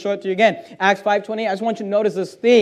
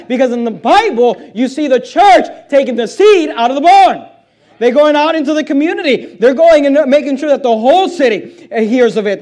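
full-force preaching; 4 dB louder than usual. Acted. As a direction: drive the point home to the church.

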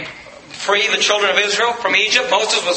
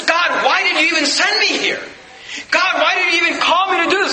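anguished shout; 7 semitones higher than usual. Acted. Moses crying out to God why he was sent, high and shouting. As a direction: throw the question up at God.

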